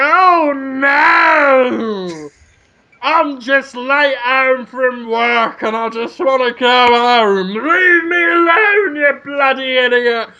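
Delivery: mock-frightened heroine. Comic playing Natalie Portman's scared character, hammed-up. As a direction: play a scared woman badly. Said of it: "Natalie Portman's all like".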